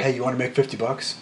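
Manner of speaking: casual shady pitch; sleazy offer. Retold or imitated. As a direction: talk down to a punk kid. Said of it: "like he's talking to some little jackass punk kid".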